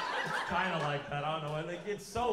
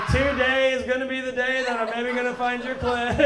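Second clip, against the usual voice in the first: dreamy crooning white guy, louder and higher; mock dreamy love-song voice; 7 semitones higher, 10 dB louder than usual. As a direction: croon it like singing a love song to her. White guy inner voice quote.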